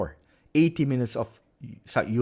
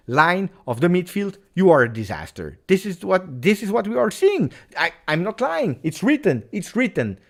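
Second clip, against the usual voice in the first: pitched way up, insisting on the stats; exasperated streamer driving the point home; heated rant; 7 semitones higher, 4 dB louder than usual. Real, not acted. Streamer fuming at his team's stats, heated pitched-up rant. Ranting about bad match stats.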